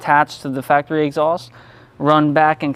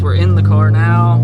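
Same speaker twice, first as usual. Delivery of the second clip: raised voice; 6 semitones lower, 6 dB louder than usual. Real, not acted. Loud exhaust in cabin.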